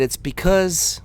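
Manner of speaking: loud, slow taunt; taunting buddy. Retold or imitated. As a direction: sneer it at him. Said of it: "He said".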